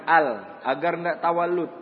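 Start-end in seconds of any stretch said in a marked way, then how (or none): 0.0-0.6 "Al" with the lam pressed firmly; lam ditekan. Shown as a demonstration. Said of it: "Lamnya ditekan". ("Al" dengan lam ditekan)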